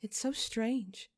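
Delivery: a lightly voiced physician, baffled; slow, puzzled remark; puzzled sigh. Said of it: "she says with a sigh".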